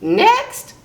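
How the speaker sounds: high, loud rising parrot call; parrot blurting. A narrator's reading. Parrot calls the next rascal, high blurted squawk. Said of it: "blurted the parrot".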